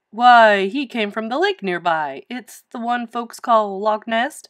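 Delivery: put-on hearty Scottish-accented explanation; Scottish storyteller's lilt, slowing at the end; Scottish uncle. A narrator's reading. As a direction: open loudly, in a Scottish lilt.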